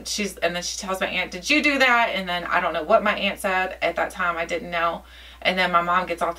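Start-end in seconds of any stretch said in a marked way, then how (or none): 1.3-2.1 higher, mildly alarmed question; imitating a rattled mother's question; retold freak-out. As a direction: ask it with a touch of panic, retelling. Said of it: "she was freaking out".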